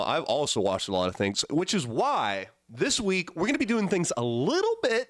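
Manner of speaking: sick, wheezy voice; hoarse from being sick. Real, not acted. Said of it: "When your voice comes back".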